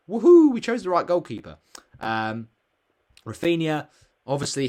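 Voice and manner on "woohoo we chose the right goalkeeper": high, loud laughing woohoo; laughing cheer. Real, not acted. Cheering his goalkeeper's single point to viewers, in a loud laughing whoop.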